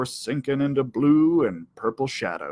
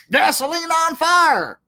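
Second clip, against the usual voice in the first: higher, louder, gasoline on fire; triumphant; 13 semitones higher, 3 dB louder than usual. A narrator's reading. Narrator finally finding the right saying, triumphant. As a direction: land the phrase with triumph.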